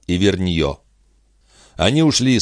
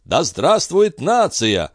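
high, slow jubilant cry; rousing mob cheer for the king; crowd cheering; 10 semitones higher, slower than usual. A narrator's reading. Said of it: "дружно кричали все".

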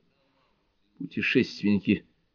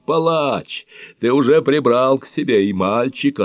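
screaming at heaven; 6 semitones higher, 5 dB louder than usual. A narrator's reading. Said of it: "продолжал вопить во всё горло". (вопит во всё горло, выше и громче, медленно)

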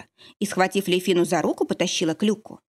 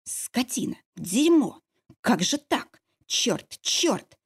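hissed curses; 5 semitones higher, much slower than usual. A narrator's reading. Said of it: "прошипела".

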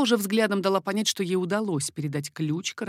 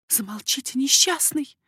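higher mock scolding; lightly voiced tender reproach; 6 semitones higher, 4 dB louder than usual. A narrator's reading. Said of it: "сказала королева".

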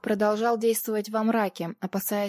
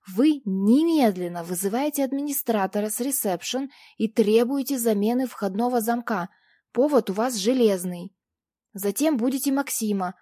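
firm, pressing instructions, louder; insistent; 4 dB louder than usual. A narrator's reading. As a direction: drive each order home. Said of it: "с нажимом уточнила я".

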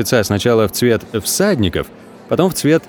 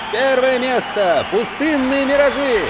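high, ringing announcement; town crier; 12 semitones higher, 3 dB quieter, slower than usual. Acted. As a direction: call it out like a herald. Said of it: "зычно объявляет".

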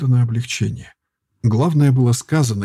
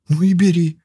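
high and loud, bursting out; almost joyful cry; 6 semitones higher, 4 dB louder than usual. A narrator's reading. Girl to healer, crying out almost joyfully. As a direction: fling it out, nearly glad. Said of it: "вскричала она почти радостно".

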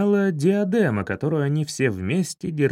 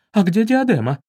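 higher and louder sudden cry; alarmed exclamation; 6 semitones higher, 5 dB louder than usual. Acted. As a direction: realise the diadem is gone. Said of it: "воскликнула баронесса". (встревоженный возглас)

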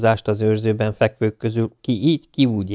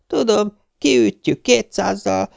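put-on old woman; 12 semitones higher, slower than usual. A narrator's reading. Old woman quoting TV doctors.

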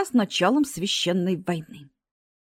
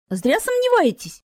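higher, offended snort of a reply; snorting retort; 6 semitones higher, 4 dB louder than usual. A narrator's reading. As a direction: toss it back with a huff. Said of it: "фыркнула ученица".

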